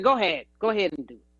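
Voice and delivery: quick, upset go-ahead, retold; upset, curt consent. Teacher letting a student retry, retold as upset. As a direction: imitate a teacher giving in, hurried and upset. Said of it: "She was, like, really upset".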